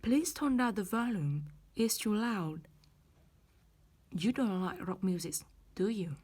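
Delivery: "do you?" rising at the end; rising tag. Shown as a demonstration. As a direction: lift "do you?" like a real question. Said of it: "đi lên".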